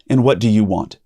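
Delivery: big sigh, then a bored question; tired volunteer sighing at the newcomer; weary, put-upon sigh. Retold or imitated. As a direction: sound worn out and fed up. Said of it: "sighs really big and says".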